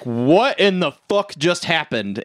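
imitated dumbfounded question; retold astonishment. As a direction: act out stunned confusion, leaning on the first word. Retold stunned reaction after the bridge.

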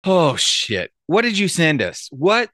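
rising shocked what; surprised. Real, not acted. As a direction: caught off guard, voice jumping up. Reacts to what was sent.

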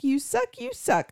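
put-on high kid chant, shouted; kid screaming. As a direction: chant it like a small kid at a game. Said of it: "your kid is screaming".

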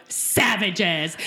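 punched-up imitation of a title announcement; Merle. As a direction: announce it with exaggerated emphasis. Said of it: "just like Merle in the post-show thing".

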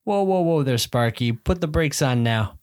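high mock scolding of the eager husband; wife's warning. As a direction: rein him in like an excited kid. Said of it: "And she's like".

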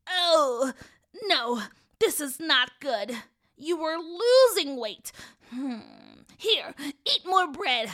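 slow, lightly voiced old woman fretting; dismayed old woman. Old woman checking the boy's finger, mildly dismayed. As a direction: draw the words out in mild dismay.

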